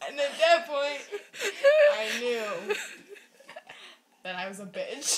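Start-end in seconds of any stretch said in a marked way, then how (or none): 0.1-2.7 helpless real laughter breaking up the words; cracking up mid-confession; laughing while talking. Real, not acted. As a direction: struggle to get it out between laughs. Cracking up at her own confession.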